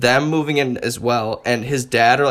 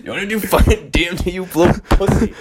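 higher taunting jeer; taunting kid; 5 semitones higher than usual. Retold or imitated. Son hazing his father over drugs, high taunt. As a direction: goad him like a frat bully.

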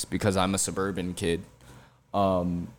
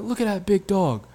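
imitating grandpa; 11 semitones higher than usual. Grandpa voiced in story.

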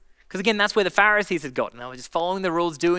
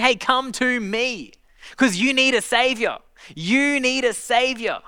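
Jesus inviting; 5 semitones higher, slower than usual. Acted.

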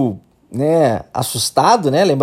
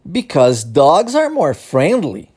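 slow, careful "Because dogs are more friendly"; slow English answer; slower than usual. Retold or imitated. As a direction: spell it out slowly as a model. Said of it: "a resposta da pessoa é".

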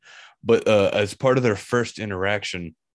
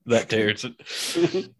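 slow, amused echo of the line through a laugh; laughing repeat; much slower than usual. Retold or imitated. Friend repeats the movie line, laughing. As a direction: savour it while laughing.

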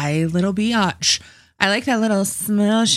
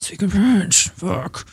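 mock coaching; slower than usual. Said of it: "she's like".

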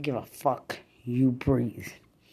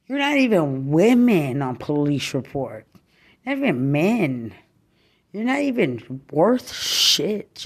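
angry; 5 dB louder than usual. Real, not acted. Furious rant at her target.

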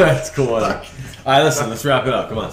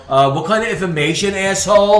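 imitated indignation; 7 semitones higher than usual. Acts the girl's expected reply.

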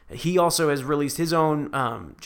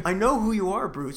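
gravelly Batman voice; 6 semitones higher than usual. Acted. Batman bit continues.

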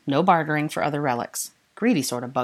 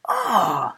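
short grunt of pain from a knee to the groin; 3 semitones higher than usual. Acted. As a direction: grunt as if just hit. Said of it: "said Draco, curling his legs in".

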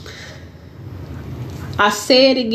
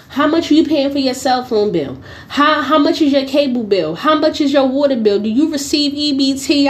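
mimicking the saleswoman; 4 semitones higher, faster than usual.

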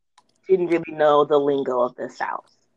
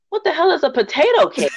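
laughing disbelief; 10 semitones higher, 4 dB louder than usual. Retold or imitated. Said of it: "I'm like".

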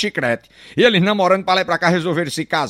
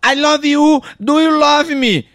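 mock American English; 8 semitones higher, 4 dB louder, much slower than usual. American woman declares love.

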